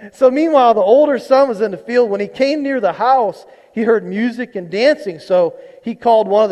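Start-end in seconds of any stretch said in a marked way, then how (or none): 0.1-4.0 scripture reading. Acted. Reads the scripture passage again.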